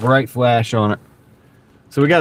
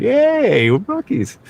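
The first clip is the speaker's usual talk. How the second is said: high, squeaky mock cheer of a Buc-ee's fan; Buc-ee's fan impression; 12 semitones higher, much slower than usual. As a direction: chirp it like a giddy Bucky fan. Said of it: "They start walking around like".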